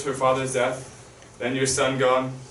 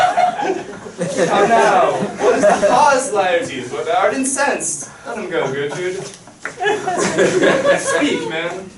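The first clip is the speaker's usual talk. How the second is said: high, loud mocking challenge; 6 semitones higher, 7 dB louder, slower than usual. The king loudly taunts furious Laertes. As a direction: face down the angry son.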